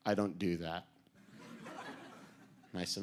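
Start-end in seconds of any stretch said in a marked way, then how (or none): 0.1-0.9 curt Armstrong refusal. Retold or imitated. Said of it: "And he said".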